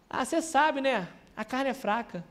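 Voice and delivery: excuse-maker, softly imitated; desculpa resignada. Voz de quem dá desculpa. (desculpa imitada, em voz baixa)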